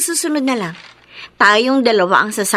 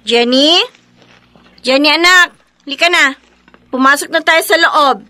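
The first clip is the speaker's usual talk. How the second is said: put-on raised voice calling a child; 3 semitones higher, 3 dB louder than usual. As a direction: call your child in from play. Mother calls child inside. (pagtawag nang malakas sa anak)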